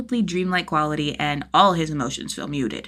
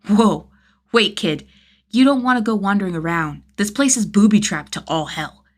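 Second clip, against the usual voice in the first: concerned; 3 semitones higher, 6 dB louder than usual. A narrator's reading. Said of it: "genuine concern spiking".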